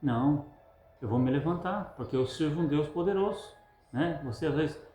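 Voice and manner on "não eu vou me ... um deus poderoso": inner voice. Acted. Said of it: "no seu interior".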